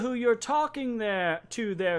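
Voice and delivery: high, imperious challenge; calling out from behind. Acted. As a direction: pull rank on a sergeant from afar. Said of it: "you hear this voice call out from behind you".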